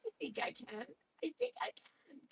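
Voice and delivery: high mocking imitation of the song; mock Asian accent, high. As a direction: squeak it out like the singer's put-on voice. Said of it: "She does it in this Asian voice".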